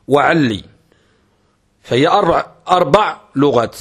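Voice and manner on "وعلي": وعلي without the first lam, ending on i; careful pronunciation. Shown as a demonstration. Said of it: "عل بدون لام". (نطق وعلي بدون اللام الأولى)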